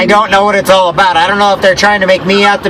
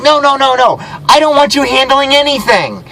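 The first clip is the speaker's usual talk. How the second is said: higher-pitched, insistent protest; retold alarmed refusal; 6 semitones higher than usual. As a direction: cut her off with acted-out exasperation. Retold refusal of her offer.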